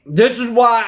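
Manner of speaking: talking through a bite of garlic bread; words round a mouthful of bread; mouth full. Real, not acted. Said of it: "I shouldn't talk with my mouth full".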